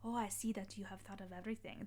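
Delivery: lightly put-on German accent. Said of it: "That's a terrible German accent".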